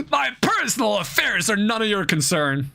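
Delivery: eerie laugh into spooky voice; spooky ghostly voice. Acted. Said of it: "you stop with the ghost voice".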